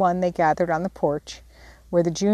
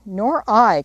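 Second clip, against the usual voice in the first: louder eager agreement; cried out; 3 semitones higher, 4 dB louder than usual. Acted. The sisters agreeing with Jo, a mild cry. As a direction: call out in chorus. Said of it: "cried the others".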